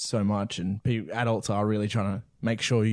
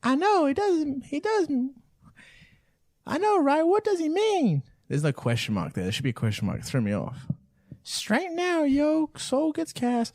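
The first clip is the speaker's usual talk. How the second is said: 1950s narrator. Pretend. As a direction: stretch it out like an old newsreel. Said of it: "You're doing it in your fifties voice".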